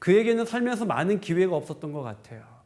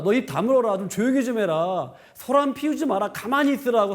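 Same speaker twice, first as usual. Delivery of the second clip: mock rebuke; 4 semitones higher than usual. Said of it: "사람들이 협박하고 위협하는 겁니다".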